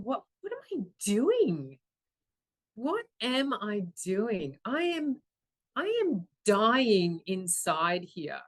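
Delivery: slow, drawn-out disbelief, pitch swooping on key words; dramatised moment of anguished realisation; dismayed self-questioning. Retold or imitated. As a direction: confront yourself, stretching each stressed word. Acts out sudden self-confrontation.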